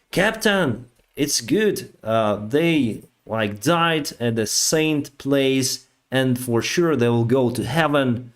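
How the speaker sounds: earnestly convinced, gently explaining; imitating a sincere, happy believer; retold eager officer. Officer explains holy death.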